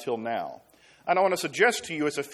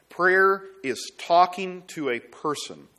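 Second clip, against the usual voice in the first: "talking" slowed and stressed; 3 semitones higher, 3 dB louder, slower than usual. Real, not acted. Preacher explaining prayer as speech to a person, stress on "talking". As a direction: lean slowly on the word "talking". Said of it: "I want to emphasize the word talking".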